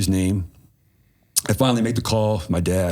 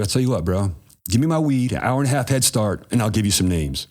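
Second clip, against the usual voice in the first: cocky, raised-pitch demand; defiant retort; 4 semitones higher than usual. Retold or imitated. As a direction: toss it back with cheek.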